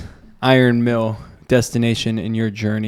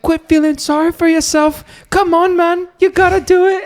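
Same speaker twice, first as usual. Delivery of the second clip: high-pitched, loud coaching yell; trainer yelling; 6 dB louder than usual. Retold or imitated. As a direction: yell it like a corner trainer between rounds. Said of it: "He's like".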